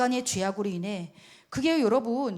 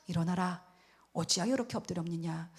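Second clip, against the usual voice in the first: softened, relenting; 5 semitones lower, 4 dB quieter than usual. Acted. God to prostrate Joshua after his anger has eased, softened. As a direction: speak gently down to someone lying prostrate. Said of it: "하나님 마음이 굉장히 풀어지셨죠".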